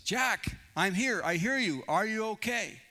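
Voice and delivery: acted rescuer hailing a stranded man; calling down. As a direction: call out to check he's okay. Holy Spirit calling down to Jack.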